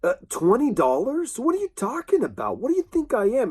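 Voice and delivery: put-on offended girl snapping back; a hint of an angry young woman; mock angry retort. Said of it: "And she's very angry".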